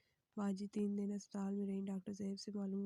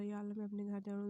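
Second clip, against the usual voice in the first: innocently; faster than usual. Acted. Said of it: "फैज़ मासूमियत से बोला".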